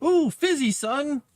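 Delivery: high, chirpy mock mom voice; lady in the commercial offering a fizzy drink, high mock voice. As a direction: play the cheery ad mother. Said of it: "they're like".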